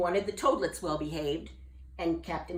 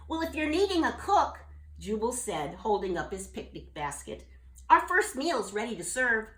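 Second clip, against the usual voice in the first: higher, louder cheerful bullfrog; bullfrog offering; 4 semitones higher, 3 dB louder than usual. Acted. Jubal offering his picnic basket, cheerful.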